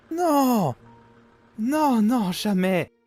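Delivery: high, heartfelt protest, easing down; shocked denial. Acted. Father denying he would abandon his daughter, shocked denial. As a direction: protest at once, then soften.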